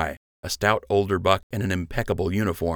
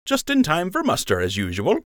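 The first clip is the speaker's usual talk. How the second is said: smug; 10 semitones higher than usual. A narrator's reading. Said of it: "Lund said with a smirk".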